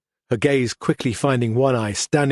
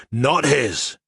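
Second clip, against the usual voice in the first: mangled voice; 3 semitones higher than usual. A narrator's reading. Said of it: "the mangled tones returning".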